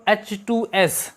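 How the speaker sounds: slowly spelling out each letter; slow dictation. Shown as a demonstration. Teacher reading the question to students, spelling it slowly. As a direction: read the formula slowly for the class. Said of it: "लिखा है बच्चों".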